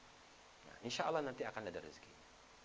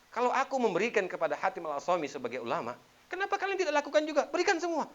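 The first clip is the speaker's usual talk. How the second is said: high, forceful leader's shout; rally the troops at full volume, voice climbing; loud commanding exhortation; 14 semitones higher, 10 dB louder than usual. Acted. Caliph ordering his soldiers to give too, loud commanding shout.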